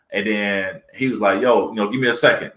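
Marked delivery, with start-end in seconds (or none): 1.4-2.5 mildly calm brush-off, at an easy conversational pitch; retold calm, nice reply. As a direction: imitate someone politely putting off a fan. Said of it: "real nice and calm".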